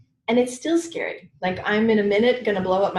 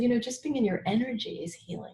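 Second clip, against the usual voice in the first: soft whisper of a wise friend; friend's whispered insight; 3 semitones higher, 7 dB quieter than usual. Retold or imitated. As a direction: whisper it like a secret. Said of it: "And Dan said".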